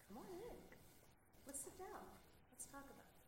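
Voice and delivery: welcoming invitation. Retold or imitated. Quoting a welcoming neighbour, bright and inviting. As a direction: lift up like a friendly host opening the door. People welcoming you in, quoted.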